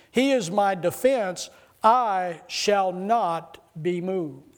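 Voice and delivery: slow, solemn scripture read; solemn, drawn-out reading of the psalm. Acted. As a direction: let each phrase of the psalm land slowly. Reads scripture slowly.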